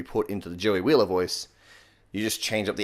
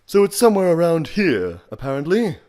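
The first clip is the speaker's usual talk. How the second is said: high, loud, breathy English villain voice; airy English accent slipping slightly Australian; Maximilian Pegasus; 8 semitones higher, 7 dB louder than usual. Shown as a demonstration. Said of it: "Slipped a little Australian into there".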